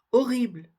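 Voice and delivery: horrible with the H silent, starting on "o". Shown as a demonstration. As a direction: say horrible clearly without any H. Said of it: "elle ne se prononce pas".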